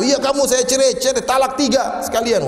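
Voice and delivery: high-pitched mock outburst; provoked husband. Husband giving in to wife's goading, mock angry. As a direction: rattle it off as a husband who took the bait. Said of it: "Kalau kita terpancing".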